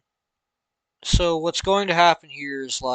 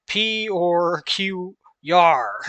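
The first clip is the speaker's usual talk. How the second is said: slow pirate drawl, loud yar; hammed-up pirate; 3 semitones higher, 4 dB louder, much slower than usual. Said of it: "like a pirate".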